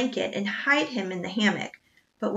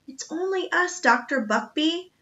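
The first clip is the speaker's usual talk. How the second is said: crying out; 7 semitones higher than usual. A narrator's reading. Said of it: "Jack cried".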